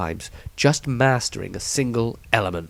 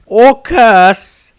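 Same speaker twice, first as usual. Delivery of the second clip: higher, louder bitter retort; grim young Maestro; 12 semitones higher, 12 dB louder than usual. A narrator's reading. Maestro grimly corrects the Patriarch, louder. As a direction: spit it out bitterly. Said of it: "added Maestro grimly".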